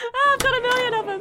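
loud, high showman brag; proud joke-teller crowing; hammy comic boast. Acted. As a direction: ham it up like a stand-up. Boasting comedian voice.

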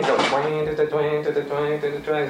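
imitated mouth harp. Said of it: "playing mouth harp".

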